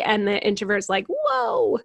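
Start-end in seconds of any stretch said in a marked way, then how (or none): 1.1-1.8 high, loud burst of an overwhelmed introvert, settling gradually; passionate overwhelm. Acted. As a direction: plead passionately for some peace, hammed-up. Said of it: "can you hear the passion in my voice".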